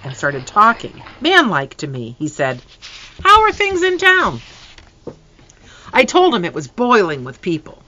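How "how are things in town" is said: much higher, put-on father voice; father asks, man to man; father's voice. Father asks son manlike.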